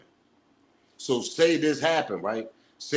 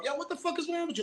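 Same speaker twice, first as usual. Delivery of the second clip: imitated yell; 8 dB quieter, faster than usual. Waking passed-out man, imitated.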